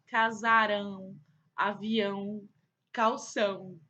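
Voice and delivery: "casarão, avião, calção" one at a time with nasal ão endings; nasal word demonstration. Shown as a demonstration. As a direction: say "casarão, avião, calção" clearly, letting each ão ring. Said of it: "quando a gente fala".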